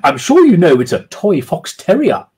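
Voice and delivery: high, loud posh lady lecturing; haughty falsetto lady; aloof schoolmistress. Acted. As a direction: speak with a schoolmistress's aloof authority. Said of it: "with the aloof authority of a schoolmistress".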